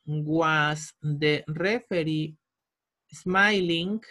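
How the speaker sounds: spaced out word by word, slowly; a teacher's slow, drawn-out dictation. Shown as a demonstration. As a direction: dictate it slowly so students can write. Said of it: "teacher dictates the answer slowly".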